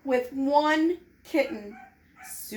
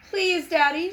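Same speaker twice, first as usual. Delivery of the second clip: put-on higher begging child's voice; pleading girl; 6 semitones higher, 5 dB louder than usual. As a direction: beg your dad sweetly. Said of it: "said Sue".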